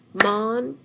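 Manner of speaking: Monument clapped out loud, syllable by syllable; MON-U-MENT in three claps. Shown as a demonstration. Teacher clapping syllables with the class, loud. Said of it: "clap with me".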